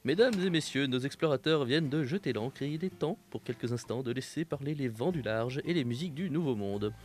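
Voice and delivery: grand theatrical announcer; hammy stage actor. Acted. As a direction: declaim it like a pompous radio host. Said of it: "une petite transition magnifique que je m'en vais te déclamer".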